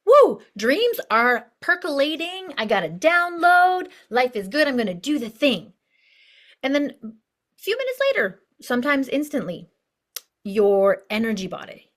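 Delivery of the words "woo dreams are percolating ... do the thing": elated, drawn-out high outburst that settles into resolve; inspired excitement. Acted. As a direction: gush as if a big dream just arrived. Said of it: "But you get inspired, right? You're like".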